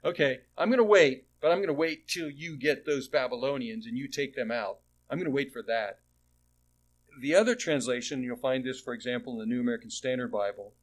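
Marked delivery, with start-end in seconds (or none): 0.1-6.0 vindictive. Retold or imitated. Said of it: "kind of a vindictive conclusion".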